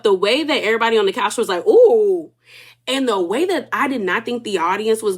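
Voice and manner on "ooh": loud imitated "ooh" of scandal; mock shocked ooh. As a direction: echo the couch's scandalized ooh. Retelling couch's collective shocked reaction.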